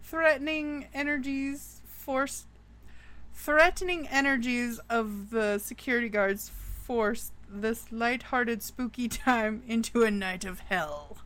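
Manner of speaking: storyteller voice, dramatic and measured; spooky story narration. A narrator's reading. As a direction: tell it like a campfire ghost story.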